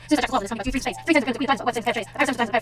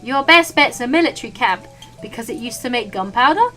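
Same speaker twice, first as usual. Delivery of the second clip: gruff chef. Acted. Chef voiced.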